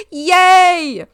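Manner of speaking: high, loud little cheer; excited yay. Real, not acted. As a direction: squeal a happy yay. Cheering about separate rooms.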